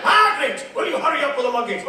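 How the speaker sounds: high, rushed nagging quote; mock impatience. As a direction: hurry them along, rattling it off. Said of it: "Then he went".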